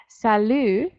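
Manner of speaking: "salut" ending openly on its vowel; silent final T. Shown as a demonstration. Teacher confirms a student's point, silent T. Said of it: "the silent T on the end there".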